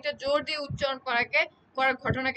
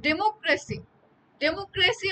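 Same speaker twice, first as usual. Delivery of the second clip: ডেমোক্রেসি with a push on ক্রে; teacher's demo of ডেমোক্রেসি, middle syllable ক্রে stressed; stress on second syllable; 4 semitones higher, slower than usual. Shown as a demonstration. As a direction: hit ক্রে harder in ডেমোক্রেসি. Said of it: "তখন কিন্তু একটু জোরে বলতে হচ্ছে".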